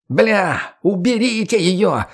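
high, slow panicked yell. Acted. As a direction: shout it out in alarm. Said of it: "запоздало закричал Клей".

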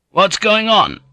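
very high, indignant question; bristling alarm. Acted. Jozen bristles at the threat.

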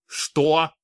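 a rough, husky asking of the word; hoarse question. Acted. Shaken count asks the regent again, hoarse. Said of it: "хриплым голосом переспросил Цыгенбок".

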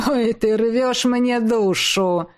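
slow, sarcastic mock pity. A narrator's reading. Ex-husband mocking the tearful woman. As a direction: drag it out with fake sympathy. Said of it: "Виктор снова засмеялся".

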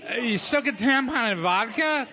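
lightly acted drunk, halting delivery; a hint of tipsy slurring, with pauses. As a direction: play mildly drunk, groping for words. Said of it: "your accent is drunk".

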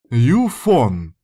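sharp irritated call of a name. A narrator's reading. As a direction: snap her name in annoyance. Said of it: "раздражённый голос Минь". (раздражённый окрик)

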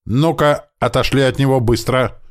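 high, loud ringing order; ringing command. A narrator's reading. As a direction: snap the thugs away from him. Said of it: "звонкий голос Светы". (звонкий громкий приказ)

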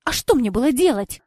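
loud, exasperated outburst; boiling over. A narrator's reading. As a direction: flare up, she has had enough. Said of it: "вскипела Кора".

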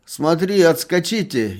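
loud, high mocking jab; a merchant teasing the drunk; ironic remark. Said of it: "иронически заметил купец". (ирония, громко и высоко)

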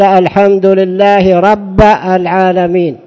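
الحمد لله رب العالمين with changed harakat on رب; vowel error demo. Shown as a demonstration. Teacher demonstrating a harmless vowel error to students. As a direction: read it with a wrong vowel. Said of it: "هذا لحن".

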